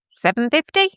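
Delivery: breathy whispered guess. Real, not acted. Whispering the time to chat. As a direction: whisper the question, unsure.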